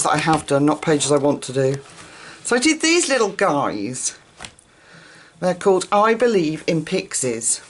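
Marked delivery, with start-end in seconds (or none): 2.4-7.6 breathless from the stairs; winded after running upstairs; out of breath. Real, not acted. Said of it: "Sorry, out of breath".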